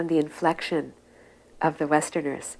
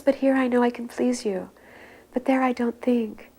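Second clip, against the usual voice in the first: put-on high, childlike begging; tearful plea; 8 semitones higher than usual. Weeping disciple begging his guru, high and childlike. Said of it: "weeping like a little baby".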